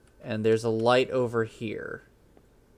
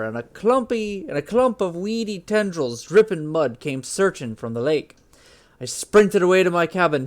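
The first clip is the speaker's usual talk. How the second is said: Scottish-tinged Norse accent. Shown as a demonstration. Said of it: "I'm getting slowly more Scottish with this".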